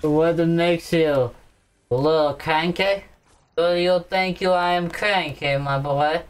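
slurred tipsy talk. Real, not acted. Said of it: "You're just freaking drunk".

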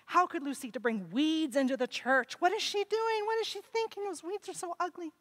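high, shocked whispering-church gossip; high, indignant churchgoer; scandalized gossip. Acted. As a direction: gasp at her like a scandalized neighbour. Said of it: "people saying".

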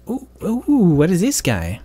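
high excited ooh; surprised. Real, not acted. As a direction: genuinely caught off guard. Surprised by ghost quest.

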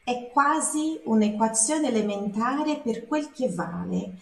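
reading un'equazione elementare in careful Italian; Italian line read aloud. Shown as a demonstration. Teacher repeating the song line for students, careful Italian. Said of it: "repeats the song line".

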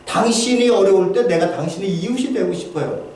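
normal talking voice

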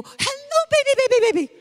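put-on very high cooing "Hello, baby, baby"; mocking baby talk. Kids mocking mom's high coo to the dog. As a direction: coo way up like talking to a puppy. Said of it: "Then you go".

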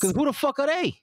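high, indignant challenge; scornful outburst. Real, not acted. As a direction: spit it out, high and defiant. Ranting against critics.

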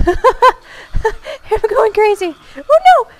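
slow, high words through laughter; giggling helplessly at the chaos; laughing. Real, not acted. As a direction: laugh it out in disbelief. Laughing at scary game moment.

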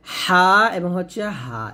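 first হা pressed from mid-throat, second হা light; contrasting two H letters. Shown as a demonstration. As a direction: draw out both হা, the first squeezed, the second thin. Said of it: "চাপ দিয়ে এবং চিকন করে বলতে". (প্রথম হা চাপ দিয়ে, পরেরটা পাতলা)

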